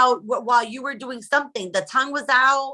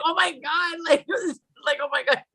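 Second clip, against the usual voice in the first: mimicked pleasure; 7 semitones higher than usual. Mimicking own bedroom reactions.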